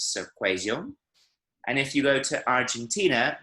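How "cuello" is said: Medellín accent, the double L in "cuello" buzzed like a z; Medellín z sound. Shown as a demonstration. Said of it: "they make a bit of a z kind of noise".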